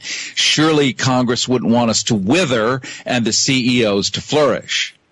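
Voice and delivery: dry sarcastic tone, mock disbelief. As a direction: lay on the irony. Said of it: "I'm adding in the sarcasm here".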